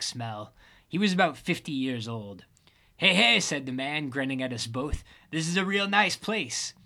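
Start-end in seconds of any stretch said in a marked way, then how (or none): 3.0-3.4 loud, high hey hey; loud greeting. Acted. A grinning stranger greeting the couple loudly. 5.3-6.7 voiceless, husky stranger voice; a scruffy old man admiring the flat; rough drifter voice. Acted. Homeless man admiring the apartment, husky and breathy. The hoodie man's voice.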